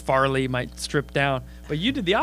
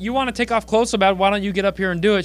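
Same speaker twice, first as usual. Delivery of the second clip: higher, sharp comeback; challenging comeback; 5 semitones higher, 6 dB louder than usual. Retold or imitated. Comic calling out the heckler, mock challenge. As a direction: call her bluff. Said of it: "I go".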